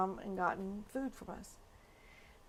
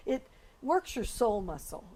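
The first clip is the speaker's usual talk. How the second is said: a touch of pulpit emphasis on works; lightly preached line; preacher style. Shown as a demonstration. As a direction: lean into works like a preacher would. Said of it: "That's how I'd say it as a preacher".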